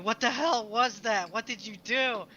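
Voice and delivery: mock scream. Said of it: "he screams at you".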